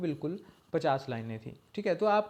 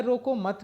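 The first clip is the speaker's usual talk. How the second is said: "रोको मत" joined as one higher-pitched phrase; pause after मत; 5 semitones higher than usual. Shown as a demonstration. Teacher placing the comma after "मत", "रोको मत" said as one unit. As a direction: run "रोको" straight into "मत". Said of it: "के बाद comma लगाता हूँ".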